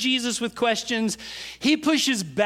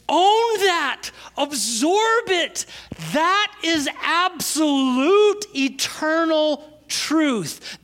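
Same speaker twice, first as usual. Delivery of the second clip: high, loud, slow sermon peak; preaching at full force; 7 semitones higher, 4 dB louder, much slower than usual. Acted. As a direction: drive the truth home from the pulpit. Preaching climax.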